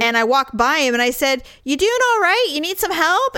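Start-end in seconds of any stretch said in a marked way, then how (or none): 1.6-3.4 concerned offer. Retold or imitated. Offering help to struggling stranger.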